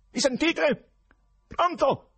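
urlato acuto nella cornetta; grido al telefono. A narrator's reading. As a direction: grida per farti sentire. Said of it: "e poi gridò di nuovo". (gridato, impaziente)

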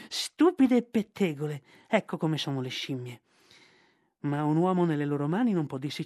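put-on proud old python spitting out insults; scornful python Ka. Python Ka scorns the chattering monkeys, sneering.

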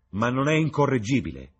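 high, loud outburst; crying out. A narrator's reading. Dorian to the company about Lord Henry, crying out. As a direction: call it out in mock exasperation. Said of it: "gridò Dorian".

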